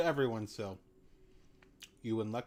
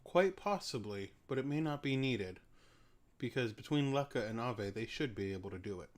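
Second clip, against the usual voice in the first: ancient dragon voice. Acted. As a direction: speak like a calm elder dragon. GM voices Ugin telepathically.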